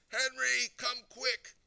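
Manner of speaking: very high, loud summons; alarmed yell. A narrator's reading. Mummy summoning her husband to the bathroom, yelling. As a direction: yell for urgent help. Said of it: "And she yells".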